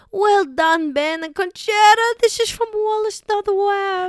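put-on high, loud silly old-person voice. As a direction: play a hammy old dear reading aloud. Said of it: "do a show as these old people".

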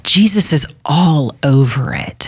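whisper. Real, not acted. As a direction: whisper it like a secret. Emphatic repeated point, whispered.

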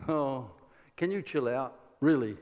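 laid-back, lightly amused; unruffled Elisha. Retold or imitated. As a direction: imitate a prophet calming a panicker, slight smile. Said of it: "Elisha just down there with a little bit of a smile".

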